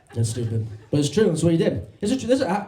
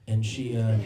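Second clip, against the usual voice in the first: normal talking voice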